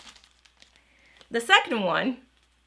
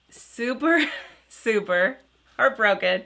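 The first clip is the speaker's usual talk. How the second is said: laughing through the words, a little louder; 3 dB louder than usual. Real, not acted. Vlogger admitting disappointment to viewers, laughing.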